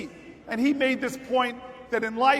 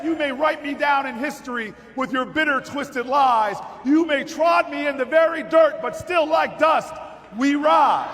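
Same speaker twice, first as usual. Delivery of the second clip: poem recited at full force; 2 semitones higher than usual. Acted. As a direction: proclaim the poem to the crowd.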